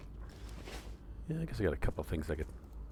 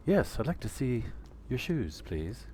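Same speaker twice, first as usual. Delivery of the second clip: higher, prim lady customer; picky customer; 6 semitones higher, slower than usual. Acted. Customer asking Carlos to see shoes, higher and prim. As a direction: ask like a haughty shopper. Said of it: "I'm doing a Steve Martin bit".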